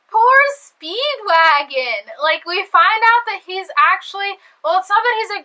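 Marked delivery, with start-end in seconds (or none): 0.1-2.1 slow mock-sad poor Speedwagon; slowly drawn-out sympathy; pitying sigh. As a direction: drag it out with exaggerated pity. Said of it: "and I was like".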